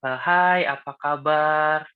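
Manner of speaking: mock-gentle concern, drawn out; gentle sweet voice. Shown as a demonstration. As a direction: act the sweet, gentle-seeming friend. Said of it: "lemah lembut ya".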